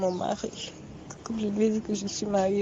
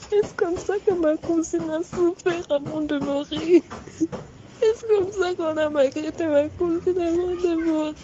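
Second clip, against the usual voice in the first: tearful prayer; 4 semitones higher than usual. Real, not acted. Terrified woman praying to God, weeping. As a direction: cry out to the Lord in tears.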